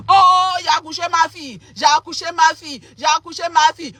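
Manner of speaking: a hint of a dancing mother's joy; mother rejoicing. Mother dancing over her newborn daughter, mock joy. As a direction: cheer like a proud mother at a birth. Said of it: "Ta maman en train de danser".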